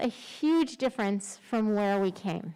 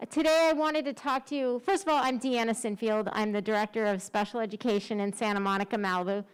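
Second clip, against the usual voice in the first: through a face mask; faster than usual. Real, not acted. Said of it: "It's really hard to speak through a mask".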